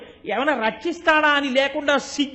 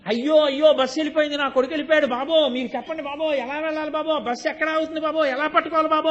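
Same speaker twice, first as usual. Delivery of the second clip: mildly raised pleading wail; retold wailing cry; 4 semitones higher than usual. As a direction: call out like a lost mother, half-acted. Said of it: "అని అరుస్తూనే ఉంటుందా". (తల్లి ఆందోళనతో అరుపు, కొంచెం నటనగా)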